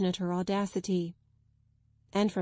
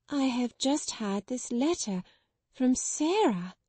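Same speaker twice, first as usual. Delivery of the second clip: half stunned; 4 semitones higher than usual. Acted. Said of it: "answered them slowly, as if half stunned".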